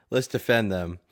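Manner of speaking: amused, slow, with a chuckle; laughing. Real, not acted. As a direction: laugh it out slowly. Laughing at the debate topic.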